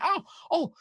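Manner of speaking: high, loud Cockney gush; a flustered Cockney shopkeeper greeting nobles; Cockney baker woman. Acted. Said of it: "English accents".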